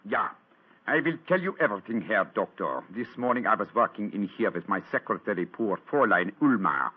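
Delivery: put-on Holmes passing as the German count, a light German accent; lightly voiced German count; German count disguise. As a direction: keep up the German accent to fool his friends. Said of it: "I hope they won't recognize me".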